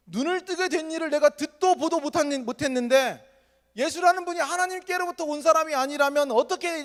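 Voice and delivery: impassioned outburst. Retold or imitated. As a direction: argue with rising fervor. 맹인이 바리새인에게 열변. (점점 높고 크게 열변을 토하듯)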